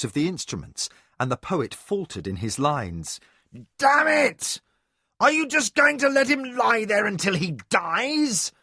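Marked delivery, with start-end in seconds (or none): 3.8-8.5 loud, high, angry outburst; strident cry. A narrator's reading. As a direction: cry it out, fed up. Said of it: "cried a strident nasal voice".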